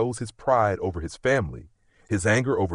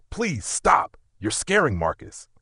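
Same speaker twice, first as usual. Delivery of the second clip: high, cracking plea; frantic pleading; 7 semitones higher than usual. Acted. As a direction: beg him to stop, panicked. Daughter begging father to stop.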